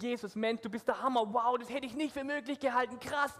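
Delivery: vorgemachter Jubel, höher; cheering. Shown as a demonstration. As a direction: begeistert staunen wie eine jubelnde Menge. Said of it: "Das Volk freut sich und sagt". (Pastor macht den Kindern den Jubel vor, hoch und begeistert)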